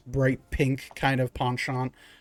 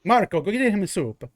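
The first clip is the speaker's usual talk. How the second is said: rat folk baker; 2 semitones higher than usual. Acted. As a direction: play a chatty rat baker pushing his bread. Baker sums up the order.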